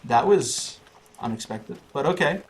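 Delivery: high, amused surprise; surprised. Real, not acted. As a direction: react with a laughing shrug. Laughs after lucky hit.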